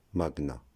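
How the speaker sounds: "Magna" said mag-na, g and n separate; hard g plus n. Shown as a demonstration. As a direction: say "Magna" with an audible hard g before n. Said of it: "Donc on prononce".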